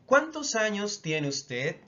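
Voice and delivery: "¿Cuántos años tiene usted?" starting high, then stepping down; model question intonation. Shown as a demonstration. Teacher modelling formal question for learners, careful question intonation. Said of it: "intonation is very important in Spanish".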